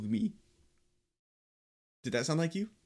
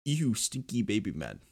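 Ryan impression; 5 semitones lower than usual. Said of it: "I could do Ryan".

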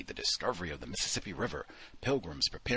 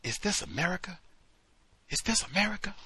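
mock yell; 12 semitones higher than usual. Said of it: "I started yelling the same thing".

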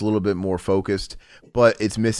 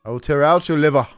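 barbarian; 6 semitones higher, 4 dB louder than usual. Retold or imitated. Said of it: "Schneider was very over the top".

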